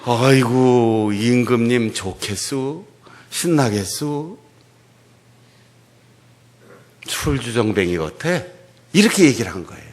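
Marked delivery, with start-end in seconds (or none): 0.0-8.4 loud, slow sneering wife; mock the king with icy sarcasm; wife sneering at David, sarcastic; cold sarcasm. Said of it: "싸늘한 표정으로".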